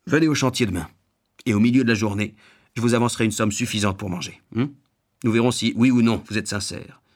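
lightly acted boss laying down terms; gruff householder. Householder offering an advance for work, a touch gruff. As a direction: state the deal firmly.

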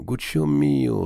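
gently. A narrator's reading. The old banker fondly repeats his nephew's name. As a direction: coax him with a fond lift. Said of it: "répondit doucement le banquier".

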